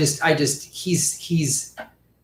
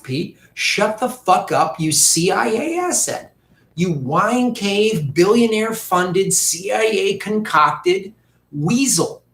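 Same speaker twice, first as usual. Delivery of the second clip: angry rant; 4 semitones higher, slower than usual. Real, not acted. Ranting at Pete directly.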